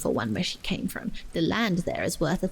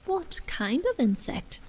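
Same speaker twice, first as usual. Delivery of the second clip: a little anxious; 7 semitones higher than usual. A narrator's reading. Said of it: "Alice inquired a little anxiously".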